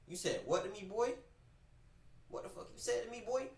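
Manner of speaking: high hushed mock grandma daring him to repeat it; menacing grandma. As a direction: let the threat sink in like an offended grandma. Grandma voiced, stunned and threatening.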